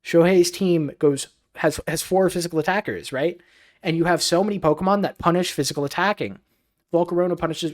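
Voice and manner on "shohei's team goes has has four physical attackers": higher, insistent restatement with weight on "four"; emphatic stress. Real, not acted. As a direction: repeat it firmly, punching "four". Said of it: "I wanna stress this again".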